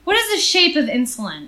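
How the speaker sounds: lightly sultry commercial voice; sultry perfume ad. Pretend. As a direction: tease it like a perfume ad. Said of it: "I sounded like a fucking perfume commercial".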